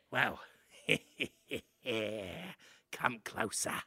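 low, creeping rat elder; a hint of a sly old rat man, low; low, drawn-out stoner rat dad; rat man father.

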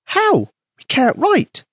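high, tiny mouse voice; squeaky mouse voice. A narrator's reading. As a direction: voice a small eager mouse. Mouse Penny speaks.

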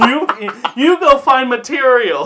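loud, high mock African accent; poor African accent. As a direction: give orders in a badly faked African accent. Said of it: "In the poorest African accent I can fucking muster".

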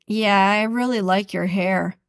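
mildly sarcastic compliment. Shown as a demonstration. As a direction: lean on really with scorn. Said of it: "some are hurtful".

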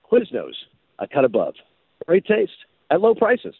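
hands in pockets, not bothering to sell it; disaffected teenager. Shown as a demonstration. Winning take for the Quiznos director, sheepish teenager read. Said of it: "Think of it like you're a disaffected teenager".

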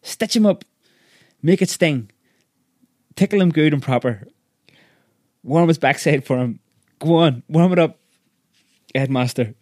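high screechy egging-on voice; excited shrieking. A narrator's reading. Woman urges headmaster to cane harder, excited shrieking. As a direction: screech encouragement, relishing each phrase. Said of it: "shrieked Missus Pratchett".

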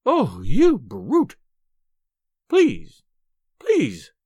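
loud, wailing surrender; exasperated pleading. A narrator's reading. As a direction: cry out, then beg reluctantly. Wife gives in, begging.

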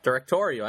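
"Directorial" said firmly with stress on TOR; "Directorial" as a clear, falling restatement; careful pronunciation. Shown as a demonstration. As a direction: show "Directorial" with its full "-torial" ending. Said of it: "I just said it".

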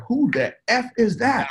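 high, slow, amazed at the mirror; stunned disbelief. Retold or imitated. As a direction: gasp it out like you can't believe your eyes.

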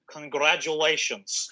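put-on slow, thick Russian accent; drawn out in a heavy Russian accent. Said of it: "thick Russian accent".

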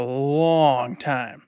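"long" drawn right out; emphatic stretch. Real, not acted. Co-host stressing the years together, "long" drawn out. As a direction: stretch the vowel of "long", then let "time" drop.

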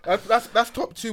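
slow, laughing through it. Real, not acted. Ranking the worst sets, laughing. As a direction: chuckle out the verdict.

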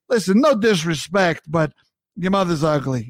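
lightly voiced blunt New Yorker; deadpan insult after a polite opener; New York phrase. New Yorker insulting your mother, mock blunt. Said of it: "New Yorkers love to say".

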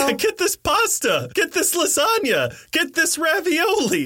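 high teasing pushiness; mock pushy waiter. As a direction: shove dishes at her in jest. Mock urging her to eat.

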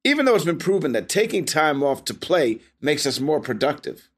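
measured podcast sponsor read; scripted commercial delivery. Acted. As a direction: read the copy cleanly and evenly. Reads an advertisement.

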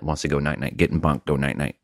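put-on drowsy, mumbled baby talk; sleepy, sulky little voice; sleepy grumpy. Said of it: "sleepy, grumpy Clint".

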